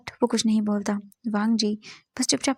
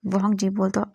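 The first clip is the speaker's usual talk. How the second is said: ordinary delivery, nothing marked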